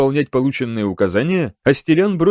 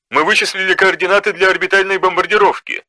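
calm and confident; 4 semitones higher than usual. A narrator's reading. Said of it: "спокойный и уверенный голос Белата".

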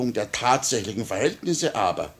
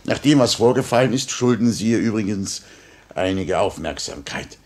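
firm insistence; 5 dB louder than usual. Acted. Minister insists, prisoner refuses.

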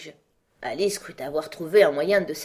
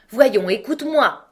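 raised, higher voice demanding attention; crying out; 7 semitones higher, 10 dB louder than usual. A narrator's reading. White Queen urges Alice to listen, crying out. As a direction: cry out to be listened to. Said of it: "s'écria la Reine Blanche".

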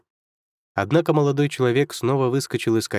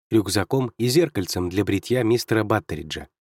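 ordinary delivery, nothing marked

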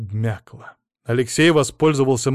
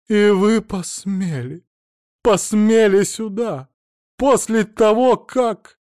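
high, slow, furious outrage; rising shriek of outrage; outraged shriek; 9 semitones higher, 5 dB louder, slower than usual. Acted. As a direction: choke on your indignation. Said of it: "Женщина кричала так".

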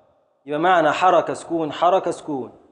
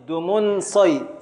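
slow scansion; 3 semitones higher, much slower than usual. Shown as a demonstration. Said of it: "ابدأ في التقطيع".

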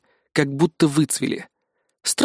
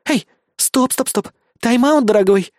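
higher, urgent call to stop; exclaiming; 9 semitones higher than usual. Acted. Amanda stops the hero, exclaiming. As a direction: cut him off quickly. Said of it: "воскликнула Аманда и подняла руки".

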